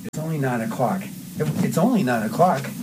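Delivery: needling line reading; mildly taunting jab; digging at him. Shown as a demonstration. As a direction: get in a light dig. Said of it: "giving him digs now".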